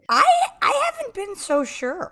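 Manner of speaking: doubtful tease. Real, not acted. Doubting the host's crush.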